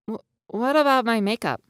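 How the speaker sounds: high, anxious character voices; fretful boys' voices. A narrator's reading. Jack voiced in story.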